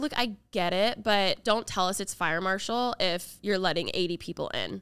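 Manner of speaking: ordinary delivery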